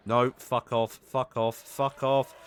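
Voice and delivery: loud, fed-up swearing at an attacker; angry shouting. Real, not acted. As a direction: bark it at the fish to go away. Attacked by crash fish.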